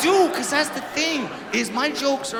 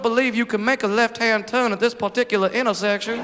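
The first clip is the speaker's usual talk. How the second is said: lightly voiced prim Southern lady, overly courteous; a hint of a polite Southern mother correcting a stranger; polite Southern belle. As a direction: mom politely correcting a driver going the wrong way, lightly voiced. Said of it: "She's a prim and proper Southern belle from Savannah".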